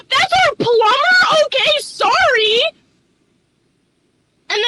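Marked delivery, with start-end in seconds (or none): 0.1-2.6 mock surprise. Mock reaction to manager.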